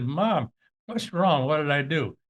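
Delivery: mock frightened child asking his mom; scared little kid. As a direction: son phoning his angry mom, a hint of fear. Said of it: "turned into this little five-year-old kid".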